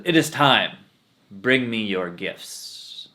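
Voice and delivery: loud call, then slow, lordly command; slow, lordly demand; demanding swami. Acted. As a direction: summon the gifts like a vain guru. Swami demands gifts from villagers.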